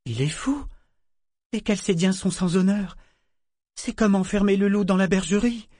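high-pitched indignant disbelief; incredulous outrage. A narrator's reading. Vivacia condemns the hiring of Chalcedeans, incredulous. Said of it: "Vivacia était incrédule".

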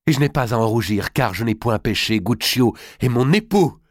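impassioned, rising to the final declaration; defiant self-defence. Acted. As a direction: stand up proudly to your mother. Daughter defends her secret marriage.

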